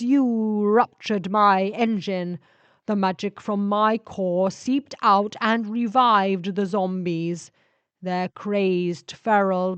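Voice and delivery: slow, heavy blame from a dying ship; accusing ship spirit. Acted. Ship spirit blames the vampire for its ruptured engine, grim.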